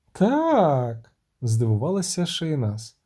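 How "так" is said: plain reading voice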